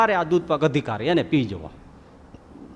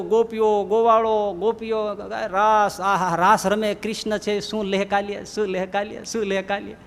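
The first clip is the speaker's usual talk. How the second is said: higher, ecstatic wonder; rapturous raving; 4 semitones higher than usual. Acted. Second friend describes Krishna's heaven: rapturous wonder. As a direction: swoon over the divine heaven.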